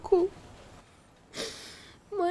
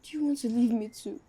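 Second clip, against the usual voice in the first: tearful quiet; 3 semitones lower, 6 dB quieter than usual. Acted. Child fears uncle leaving.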